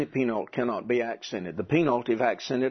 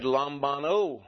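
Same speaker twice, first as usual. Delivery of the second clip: lambano stressed on the final NO; stress on last syllable; slower than usual. Shown as a demonstration. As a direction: lean on the end of lambano, lam-ba-NO. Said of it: "or do we accent here".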